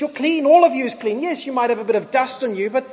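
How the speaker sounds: rising delight, insisting you're clean; Jesus's joyful reassurance. Retold or imitated. Jesus telling Christians they're clean, rising and joyful. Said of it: "Jesus looks at us and says".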